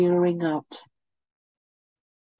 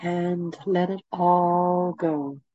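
guided meditation. Acted. Leads a meditation.

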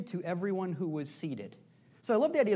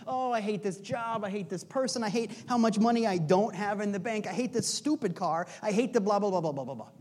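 raised, acted-out grumbling that runs into blahs; mock griping; 3 semitones higher, 4 dB louder than usual. Preacher mimics people cursing where they are, mock griping. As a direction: play an exasperated complainer reeling off grievances. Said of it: "so easy to curse where you are".

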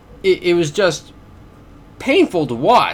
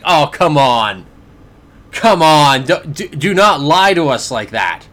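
exasperated protest; 4 dB louder than usual. Retold or imitated. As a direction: object in disbelief, leaning hard on the words. Mock response to announcer's claim.

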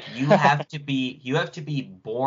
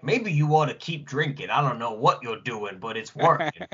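imitated Southern accent. Friend quoting the detective for laughs, imitated Southern accent. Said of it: "I loved when he went like".

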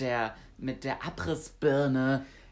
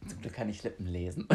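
laughing; 5 semitones lower, 6 dB quieter, faster than usual. Real, not acted. Joke then bursts laughing.

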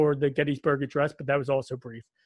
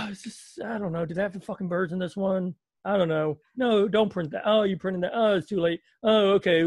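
higher, flustered muttering to oneself; lightly put-on flustered magazine writer, higher-pitched; imagined TV Guide writer; 4 semitones higher than usual. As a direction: play a mildly exasperated writer thinking aloud. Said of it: "They'd be like".

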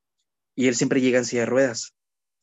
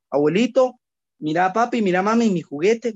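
put-on higher, eager child calling out for the toy; a kid tugging at grandpa for the promised toy; excited child; 4 semitones higher than usual. Child calling to grandpa and mom, eager and higher. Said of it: "lo primero que va a decir".

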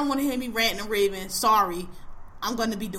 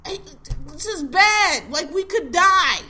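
urgent alarm; 6 semitones higher, 6 dB louder, slower than usual. Real, not acted. Alarmed rant about the danger.

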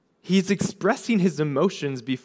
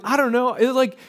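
high-pitched, mock-innocent excuse; comic retelling of a feeble excuse; Aaron's excuse; 6 semitones higher than usual. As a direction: play the clueless culprit, pitched up. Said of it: "And Aaron's like".

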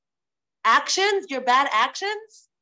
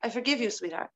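mild gentle mother; 4 semitones lower, 5 dB quieter, faster than usual. Retold or imitated. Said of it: "She says".

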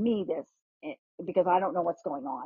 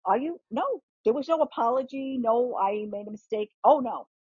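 imitating mother's indignant defiance, pitched higher; 5 semitones higher than usual. Mother defends throwing the drink at the christening, mock indignant. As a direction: play the unrepentant mother, refusing to apologize, pitched up. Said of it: "she was indignant".

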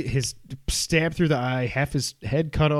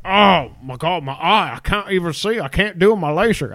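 louder, a bit higher mock Australian whine; botched Australian accent; 4 semitones higher, 6 dB louder, slower than usual. Podcaster mocking Kano losing his eye, botched Australian accent. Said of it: "I don't know what that accent was".

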